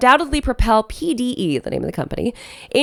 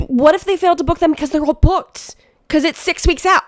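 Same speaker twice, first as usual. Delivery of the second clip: higher-pitched, incredulous protest; exasperated disbelief; 6 semitones higher, 3 dB louder than usual. Real, not acted. Host reacting to vendors booked six weeks out, exasperated. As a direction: argue back in rising disbelief.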